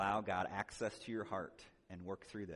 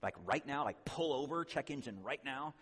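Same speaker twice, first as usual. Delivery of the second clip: urgent; 5 semitones higher than usual. Retold or imitated. Urgent warning light.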